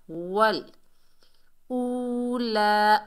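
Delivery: वल ऊला, with a long ऊ; slow recited वल ऊला; drawn-out recitation. Shown as a demonstration. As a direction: stretch ऊला slowly and lift it. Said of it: "वाव साकिन से पहले पेश है".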